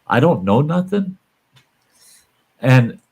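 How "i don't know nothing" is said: higher, rising outrage; indignant. Real, not acted. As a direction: bristle at being talked down to. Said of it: "when people are condescending".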